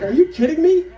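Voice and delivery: high-pitched amused disbelief; acted squeal of disbelief; can't believe this is happening; incredulous. He laughs in disbelief at her.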